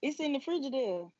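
lightly imitated Mississippi speech on "Frigidaire"; Southern Mississippi-accented answer. Shown as a demonstration. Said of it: "I love y'all Mississippi accent".

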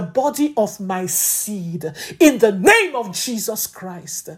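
commanding warfare prayer; fervent prayer. Acted. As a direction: pray in tongues with authority.

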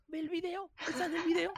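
high, fast impatient answer; it's in the video, obviously; mock exasperation at a commenter; exasperated reply. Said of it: "Y es como".

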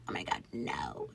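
very low, barely voiced mutter; retold dismay, dropped to a near whisper; hushed dread. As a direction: say it low and under your breath. Retold dread at girlfriend's demand.

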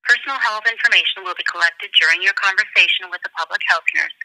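recorded automated phone message; prerecorded hold line announcement; phone menu voice. Real, not acted.

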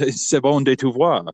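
put-on French accent; mock French. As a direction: show off some shaky French for laughs. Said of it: "like, a French accent".

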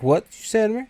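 high, outraged threat; O-Dog challenging the addict, threatening; menacing challenge. Retold or imitated. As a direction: confront the addict before shooting. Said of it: "O-Dog's like".

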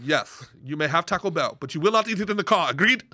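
imitated strict Austrian driver laying down terms; matter-of-fact Austrian. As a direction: do a no-nonsense Austrian accent. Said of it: "she was just matter of fact about everything".

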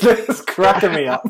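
real helpless laughter; laughing hard. Real, not acted. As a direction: lose it completely mid-sentence.

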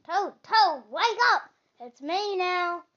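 eager Frog calling his friend; excited wake-up call. A narrator's reading. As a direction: shake him awake with joy. Frog wakes Toad excitedly.

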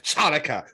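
Chanukah with the CH sounded out; mispronounced on purpose. Shown as a demonstration. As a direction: say Chanukah with an exaggerated CH at the start. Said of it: "don't say it like that".

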